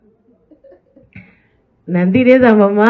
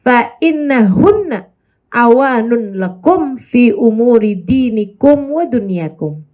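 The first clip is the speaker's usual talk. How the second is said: slow, measured Arabic quotation; Arabic hadith recitation; slower than usual. Shown as a demonstration. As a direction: recite the Prophet's words with care. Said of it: "disampaikan Nabi Muhammad".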